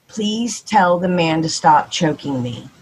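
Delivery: slow, hoarse little girl imitation; lightly voiced hoarse toddler, slow and low; hoarse child voice. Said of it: "her voice is all hoarse".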